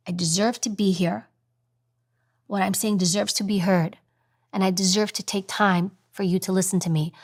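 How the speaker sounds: measured, grounded and assured; taking her time. Shown as a demonstration. Speaker telling listeners she deserves time, measured and grounded. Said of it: "when I speak and I take my time".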